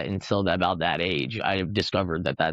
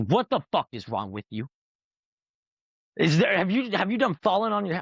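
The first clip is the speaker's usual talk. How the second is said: incredulous friend; 9 semitones higher than usual. Retold or imitated. Friend scolding him in disbelief.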